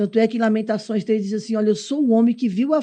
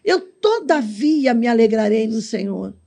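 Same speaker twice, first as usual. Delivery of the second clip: preaching; slower than usual. Acted. Preacher quoting scripture, slowed.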